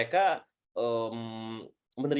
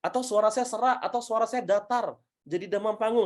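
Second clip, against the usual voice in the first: slightly higher-pitched imagined questioner; mild mock worry, pitched up a little; questioner with stage fright; 4 semitones higher than usual. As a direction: lightly act out someone asking for help. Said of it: "Atau misalnya gini".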